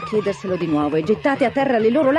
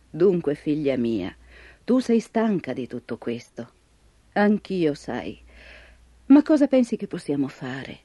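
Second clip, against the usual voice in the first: put-on a tired old grandmother speaking; old woman voice; 8 semitones lower, 3 dB quieter than usual.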